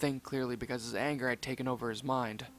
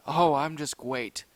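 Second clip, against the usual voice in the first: sarcastic; 5 dB louder, slower than usual. Acted. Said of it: "Zuma said sarcastically".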